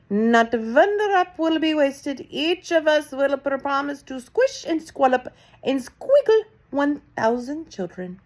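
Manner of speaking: a hint of a high, slow witch promising; lightly voiced witch. A narrator's reading. Witches promise the Grand High Witch, lightly voiced.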